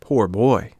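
pitying exclamation, emphatic and drawn out; compassionate. A narrator's reading. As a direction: pity the poor child. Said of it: "looking at him with compassion".

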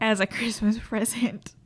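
laughing uneasily through words; awkward laugh mid-sentence; nervous laugh. Real, not acted. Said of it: "nervous laughter".

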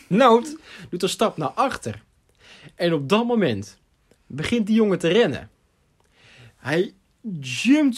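slowed build-up with emphatic pauses; play-by-play in slow motion; dramatic storytelling. Real, not acted. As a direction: draw out each beat of the suspense.

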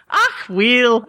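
mock Scottish exclamation; put-on Scottish brogue; Scottish accent. Shown as a demonstration. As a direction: toss in a hammed-up Scottish aside. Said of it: "I just decided to throw that in there".

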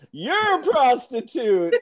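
laughing through the line. Retold or imitated. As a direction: giggle out the quote. Quoting movie line, laughing.

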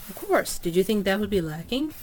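mild surprise. Acted. Lady answers, mildly indignant.

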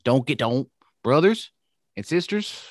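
mock Southern accent with lifted pitch; half-slipped Hulk Hogan gone Southern. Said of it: "I'm doing a Southern accent".

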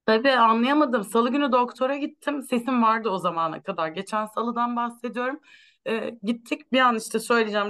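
normal talking voice

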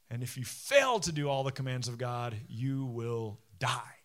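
low, solemn warning, slowing at the end; grave warning. Retold or imitated. Preacher quoting Moses's warning of failure, grave. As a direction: drop low and draw out the final words.

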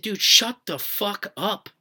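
slow, harsh, exasperated snap; angry retort. Retold or imitated. To the panicking friend in the back seat, an exasperated angry snap. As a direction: tell him off like you've had enough.

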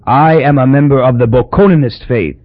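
wheezed out loudly; wheezing. A narrator's reading. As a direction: force it through a tight chest. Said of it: "Papa wheezed".

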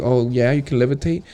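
smug David Blaine. Pretend. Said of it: "David Blaine will be like".

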